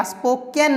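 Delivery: स्पोकन said with "-ken" at the end; wrong pronunciation. Shown as a demonstration. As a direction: put an "eh" after the k in स्पोकन. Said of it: "ए नहीं करेंगे".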